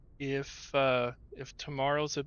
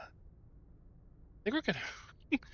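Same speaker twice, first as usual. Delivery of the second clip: whispered aside; 9 semitones higher, 6 dB quieter, much slower than usual. Real, not acted. Trailing aside.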